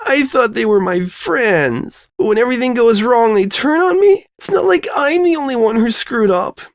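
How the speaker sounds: tearful outburst. Acted. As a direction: let it spill out, voice climbing. Distraught girl crying about friends.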